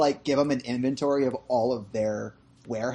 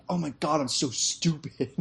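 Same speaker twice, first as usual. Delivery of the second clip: self-mocking realization; 4 dB quieter than usual. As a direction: drag out the dumb realization. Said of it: "Freb has that look on his face like".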